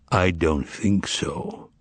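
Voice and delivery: slow, low words through the teeth; through his teeth. Acted. Voland answers the master, slow, low, through his teeth. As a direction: say it slowly with clenched teeth. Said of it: "said Voland through his teeth".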